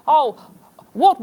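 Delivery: husband in put-on Australian; broad mock Australian husband; mock Australian accent. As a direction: attempt an Australian impression. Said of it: "I'm amazing at impressions".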